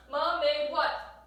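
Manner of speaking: loud, slow, each word drawn out; slow questioning. Shown as a demonstration. Teacher modelling the question to students, slow and loud.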